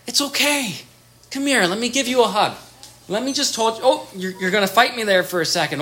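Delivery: put-on calm a raging toddler gently; soothing parent. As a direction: parent soothing a tantrum, lightly voiced. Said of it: "And you go".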